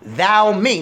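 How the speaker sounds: the voice of God calling to Saul. Acted. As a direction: cry out Saul, then draw out why persecutest thou me. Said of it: "this is peculiar to him".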